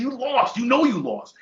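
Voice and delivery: high, pointed jab of a taunt; mock taunt. Telling the winner he really lost, high mock taunt.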